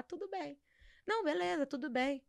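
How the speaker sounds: a lightly mocked, tight "tudo bem" hiding anger; passive-aggressive fine. Retelling to the host how she swallows anger. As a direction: say it's fine while clearly not fine. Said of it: "Eu vou ficar com raiva e vou falar".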